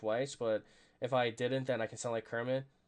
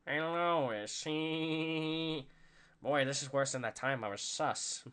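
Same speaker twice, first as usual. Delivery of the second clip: lightly voiced cartoon dad with a Boston accent; Peter Griffin. Streamer trying a requested cartoon impression, light Peter Griffin voice. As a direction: throw in a goofy chuckle after the greeting. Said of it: "Peter Griffin impression, just do that".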